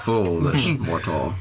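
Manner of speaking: dark lord. Pretend. Mock villain taunt at players.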